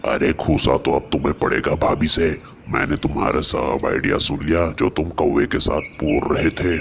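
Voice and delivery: triumphant loud gloat. Acted. Neighbour exposing the lie.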